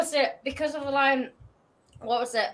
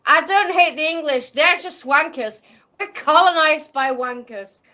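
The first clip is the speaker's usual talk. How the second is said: Scottish quote. Retold or imitated. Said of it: "Okay, so the quote is".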